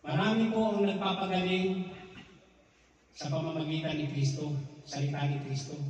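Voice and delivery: loud, stressed preaching warning; emphatic preaching. Real, not acted. Preacher warns the brethren about faith healers, loud and emphatic. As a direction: press the warning hard on the congregation.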